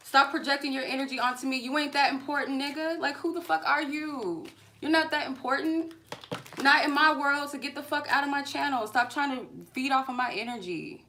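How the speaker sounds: high-pitched, fast angry tirade; furious rant. Real, not acted. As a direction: tear into him without a breath. Yelling at harasser on live.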